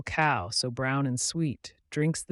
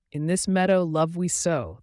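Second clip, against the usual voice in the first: higher, louder lightly voiced cow; reflective cow; 5 semitones higher, 7 dB louder than usual. Cow reflecting on the meadow, gently. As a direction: muse gently on love. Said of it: "the cow reflected gently".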